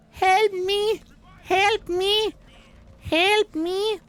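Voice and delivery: high, frantic calls for help; cry for help. Acted. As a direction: yell for help desperately.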